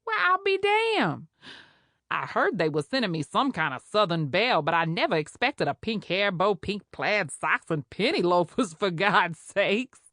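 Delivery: brassy Creole nurse laughing at a newcomer; sassy charge nurse, scornful and amused; mocking Creole head nurse. Head nurse mocks new doctor.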